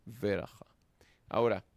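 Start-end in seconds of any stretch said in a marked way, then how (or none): 0.0-0.7 "veraja" with a vowel after the first consonant; "veraja" with its opening syllable sounded, unclustered; vocalized sheva. Shown as a demonstration. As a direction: give "veraja" three syllables.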